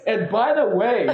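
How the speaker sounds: hammed-up lecture on being grateful, half laughing; incredulous rant. Comedian reminding the passenger he's flying, laughing incredulous rant. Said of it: "I, I don't do it very well".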